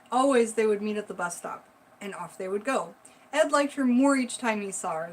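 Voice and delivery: spooky storytelling voice; story narration. Acted. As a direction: read it like a campfire ghost story. Reads scary story aloud.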